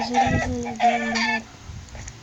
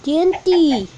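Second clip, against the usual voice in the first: loud call; 5 semitones higher, 8 dB louder, slower than usual. Real, not acted. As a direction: shout it out. Shouting an instruction.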